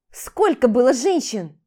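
loud, slow demand. Acted. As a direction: press him hard. Demands number of women. (громко и медленно, требовательно)

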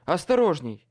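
loud hoarse warning; hoarse strained warning. A narrator's reading. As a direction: strain to warn him. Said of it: "прохрипел я с усилием".

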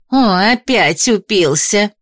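slow, drawn-out grumble; grumbling. A narrator's reading. Market woman complaining about a drunkard, grumbling. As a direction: grumble it with stretched words. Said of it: "заворчала одна из женщин".

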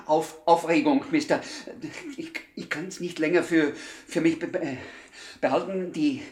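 nervous stammer. Acted. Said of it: "warum stottern Sie denn plötzlich".

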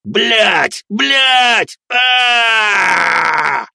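loud, high pained swearing; screaming curses. Acted. Leader curses as darkness eats his leg, loud. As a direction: howl the curses.

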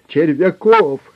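loud, high screamed name; desperate shout. A narrator's reading. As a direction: scream it before they stop you. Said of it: "закричал пленник". (отчаянный громкий крик)

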